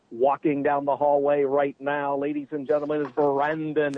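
announcer voice. Shown as a demonstration. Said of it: "talk in my announcer voice".

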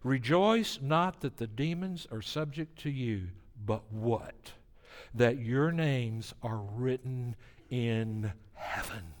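slow down and settle into gravity; very serious. Retold or imitated. Jesus correcting excited disciples, quiet and grave. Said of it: "And Jesus gets very serious".

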